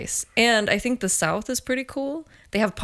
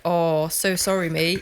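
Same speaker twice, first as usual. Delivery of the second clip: mock British pity; 2 semitones lower, slower than usual. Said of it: "They're like".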